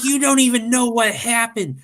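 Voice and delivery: high-pitched mock indignation; exasperated, very high imitation; imitating upset wife. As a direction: protest in a put-on high wife voice. Retelling upset wife's reply.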